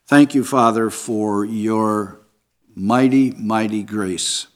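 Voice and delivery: earnest pastoral prayer voice. Acted. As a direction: pray it sincerely over the congregation. Pastor leads closing prayer.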